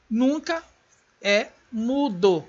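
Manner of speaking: Nunca lançado alto, é mudo devagar; stress on nunca. Shown as a demonstration. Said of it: "recapitulando, ênfase". (ênfase em Nunca)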